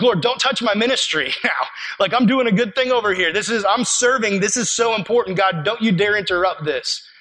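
mildly indignant protest to God; mock upset. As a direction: act out someone defensively guarding their ministry. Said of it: "get upset with God".

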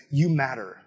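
quiet reassurance. Acted. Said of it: "getting on this guy's level and saying".

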